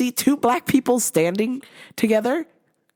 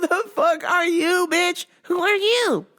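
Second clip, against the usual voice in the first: indignant; 10 semitones higher, slower than usual. Real, not acted. Indignant rant at customer.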